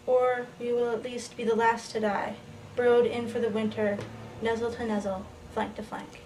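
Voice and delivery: even, measured poem recital; poetry reading. Acted. Reads poem titled Zoomorphic.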